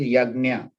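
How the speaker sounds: "yagna" with g-n and a y-glide, "yag-nya"; correct pronunciation. Shown as a demonstration. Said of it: "the correct pronunciation is".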